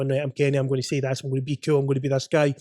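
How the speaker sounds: a hint of a guy playing it cool; acting cool. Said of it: "if I go in there and I'm acting".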